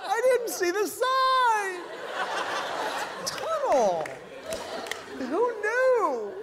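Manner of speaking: high shouted panic, slowed and laughing; panicked driver. Acted. Clueless driver seeing the tunnel, panicked high shout. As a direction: yell it like a confused tourist at the wheel. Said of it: "Who is driving going".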